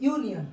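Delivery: "ইউনিয়ন" opening on "yoo"; initial U as "yoo". Shown as a demonstration. Teacher confirming the sound, "ইউনিয়ন" pronounced with initial "yoo". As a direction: say "ইউনিয়ন" with a "yoo" start, falling away. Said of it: "ইউ এর মতো হচ্ছে".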